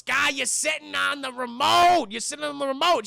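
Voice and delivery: lightly hammed-up griping husband; mock irritated complaint. Husband to wife as the TV goes on the fritz, mock irritated.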